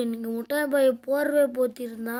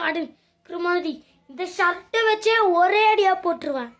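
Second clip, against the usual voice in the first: fast, louder threatening rant; angry threat; 2 semitones higher, 4 dB louder, faster than usual. Acted. Boy threatens friend over chips, angry rant. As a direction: rattle off the threat.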